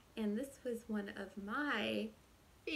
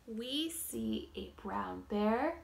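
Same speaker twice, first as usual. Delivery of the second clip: whispering; 4 dB louder, slower than usual. Acted. Whispered start of recap.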